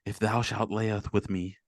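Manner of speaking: lightly put-on archaic poet; a hint of solemn suitor reading verse; mock poetic voice. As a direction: recite mock-Shakespeare haltingly. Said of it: "why do you have that voice?".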